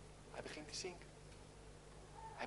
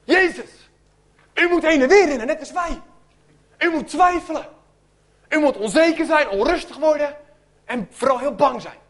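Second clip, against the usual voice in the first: loud, higher frantic urging; panicked pleading; 4 semitones higher, 4 dB louder than usual. Acted. Disciples wake sleeping Jezus, frantic loud pleading. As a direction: shake him awake in mock alarm.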